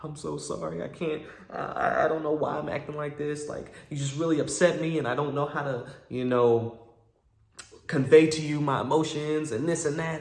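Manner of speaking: lightly mock her weepy apology; imitated tearful apology. Girlfriend apologizing in the parked car, mock tearful. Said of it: "She starts crying and she's like".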